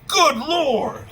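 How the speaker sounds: loud, high mock panic; freaking out. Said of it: "Freaks out".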